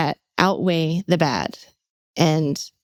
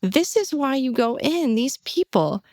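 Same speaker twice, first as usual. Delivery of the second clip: higher, moved and earnest; a little emotional; 6 semitones higher than usual. Real, not acted. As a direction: let real emotion lift the pitch. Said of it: "I'm getting a little emotional about it now".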